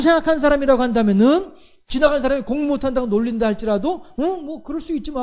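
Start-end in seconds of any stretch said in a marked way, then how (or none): 4.2-5.2 mild shrug-off. Retold or imitated. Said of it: "이성적으로".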